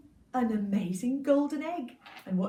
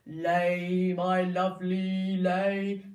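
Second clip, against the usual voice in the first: giant voice; 5 semitones lower, 5 dB louder, much slower than usual. Acted. Giant coaxes goose.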